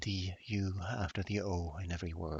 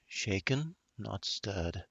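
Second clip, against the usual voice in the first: snobby British drawl, amateur attempt; a hint of a Bond-style British accent; lightly faked posh British; fake British accent; slower than usual. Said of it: "fake British accent that I can manage".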